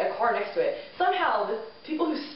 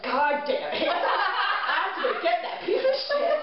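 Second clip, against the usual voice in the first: laughing, high exasperated groan; mock annoyed dad; 6 semitones higher than usual. Dad told police found car, laughing exasperated groan. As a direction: groan as the car comes back. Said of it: "he's like".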